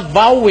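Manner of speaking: "vow" begun with a v sound; Hebrew pronunciation. Shown as a demonstration. Preacher demonstrating the Hebrew sound to listeners, Hebrew pronunciation. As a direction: say "vow" with V in place of W. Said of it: "ang pronunciation ng Hebrews".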